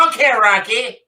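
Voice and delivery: a light hint of an old-time cop; lightly voiced thirties policeman; 1930s policeman. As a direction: bark it like a movie cop through the door. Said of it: "my nineteen thirties policeman".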